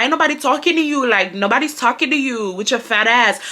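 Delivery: mock Hispanic boy's accent, dismissive. Brian insulting the girl, in a Hispanic accent. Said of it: "y'all know them Hispanic accents".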